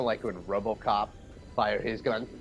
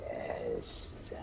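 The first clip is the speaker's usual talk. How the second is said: low, unvoiced whisper; whispered yes; 9 semitones lower, 9 dB quieter than usual. Slicks reacting as the snaky arm retreats, whispered. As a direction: whisper it slowly under the breath. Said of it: "Slicks is just like".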